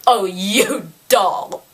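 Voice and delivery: slow, drawn-out gushing put-on voice; hammed-up affectionate cooing; mock gushing hostess. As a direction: draw it out like a fawning socialite. Mocks an over-friendly Arya.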